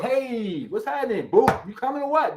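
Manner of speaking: mock smooth ladies' man, casually confident; Fonz. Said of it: "You gotta come in there like the Fonz".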